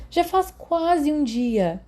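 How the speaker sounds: voz bem mais aguda e lenta de menino; voz do Peter. Acted. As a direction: um garoto tímido pedindo para entrar. Peter falando com a enfermeira. (Peter pede à enfermeira, voz bem aguda)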